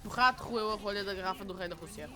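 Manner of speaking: "rato", "roeu", "rolha" with quick guttural r's, in Portuguese; Portuguese tongue twister. Shown as a demonstration. Streamer showing the R lesson, fast tongue twister "O rato roeu". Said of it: "tried to teach me how to roll my tongue".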